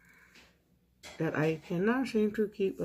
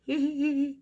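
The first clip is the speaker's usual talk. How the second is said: laughing; 9 semitones higher, 5 dB louder than usual. Real, not acted. Laughs at own indecision.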